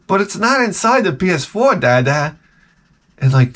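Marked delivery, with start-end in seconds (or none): 0.1-2.4 put-on protesting little boy. Young son protesting to dad.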